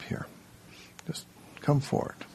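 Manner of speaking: a soft whispered nudge to step up; whispered coaxing. Real, not acted. Teacher gently urging a shy volunteer, whispered. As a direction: breathe it as a gentle invitation.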